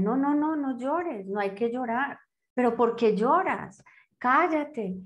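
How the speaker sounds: voz más aguda de adulta que manda callar al niño; adulto que regaña. Retold or imitated. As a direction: imitar a la mamá que corta el llanto, más agudo. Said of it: "me decían". (imitando a un adulto que regaña, voz más aguda)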